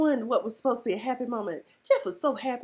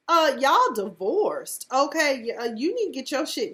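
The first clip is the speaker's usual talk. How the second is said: scolding; 4 semitones higher, 4 dB louder than usual. Real, not acted. Scolding Reagan, slow and loud.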